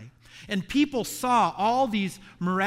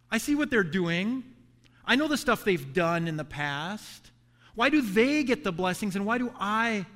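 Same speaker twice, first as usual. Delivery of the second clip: higher, resentful questioning; jealous complaint; 3 semitones higher than usual. Pretend. Believer comparing himself with others to God, resentful and higher. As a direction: grumble to God about others' blessings. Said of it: "we start to look around and we say".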